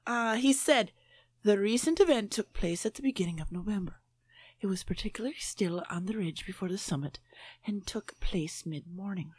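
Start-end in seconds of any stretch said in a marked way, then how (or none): 1.4-9.3 mock Irish accent, read fast; a light Irish lilt, rattled off quickly. Host reads a ghost news story aloud in a quick Irish accent. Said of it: "We'll read it out in an Irish accent anyway".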